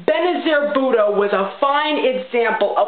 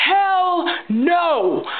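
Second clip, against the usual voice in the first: HELL higher still, punched and falling; emphatic hell no; 6 semitones higher than usual. Real, not acted. Ranting vlogger repeats her refusal, harder. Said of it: "I'll say it again".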